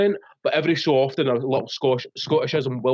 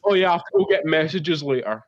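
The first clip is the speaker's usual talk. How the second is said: Scottish slip; faster than usual. Retold or imitated. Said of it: "wee things like that".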